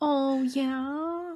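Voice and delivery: very high, patronizing, drawn-out "yeah". Retelling a reply to a partner in a patronizing tone. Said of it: "I take a really patronizing tone".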